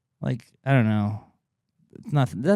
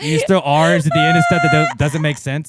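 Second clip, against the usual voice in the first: lightly mock Aussie; 5 semitones higher, 6 dB louder than usual. Mocking Australian accent.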